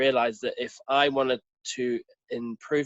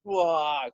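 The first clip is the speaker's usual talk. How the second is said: mock sob; 2 semitones higher than usual. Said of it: "crying because this".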